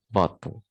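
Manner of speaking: "bottle" with a short, reduced final syllable; short weak ending. Shown as a demonstration. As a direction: say "bottle" with the "-tle" cut short. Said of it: "cenderung lebih pendek".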